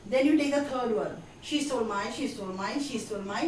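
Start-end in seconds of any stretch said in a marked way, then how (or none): 1.4-3.5 "she stole my" repeated in a steady quick run; quick repeated drill. Shown as a demonstration. Teacher building up the sentence for fluency, quick repeated drill. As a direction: chain "she stole my" over and over without stopping. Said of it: "जल्दी जल्दी बोलना है".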